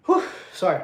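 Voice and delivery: winded after exertion; out of breath. Real, not acted. Streamer winded after handstand push-ups, out of breath. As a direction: apologise while catching your breath. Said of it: "A little bit out of breath".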